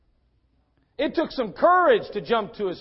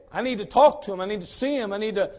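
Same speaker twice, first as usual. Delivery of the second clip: loud, emphatic bursts on key words; insistent; 5 dB louder than usual. Acted. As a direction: press the need urgently. Preacher voices Jesus insisting.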